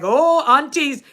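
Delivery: drawn-out, high, loud exclamation; slow, loud imitated call; Mary Jane. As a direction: imitate her with a long, lifted "oh". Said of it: "Mary Jane is like".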